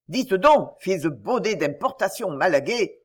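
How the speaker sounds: apostrophe furieuse entre les dents; « Dites donc » lancé plus fort, puis grinçant; dents serrées. Acted. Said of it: "fit-il en serrant les dents". (rage contenue, dents serrées)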